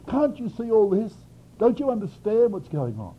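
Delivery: high, urgent appeal; pleading. Retold or imitated. Habakkuk pleading with God to act, pleading. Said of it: "He pleaded with God".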